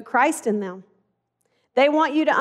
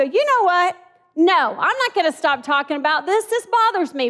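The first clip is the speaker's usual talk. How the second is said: raised, higher insistent voice; a heated, higher demand to talk; firm insistence; 6 semitones higher, 3 dB louder than usual. Retold or imitated. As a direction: retell it as pushing back hard. Retold standing up in argument.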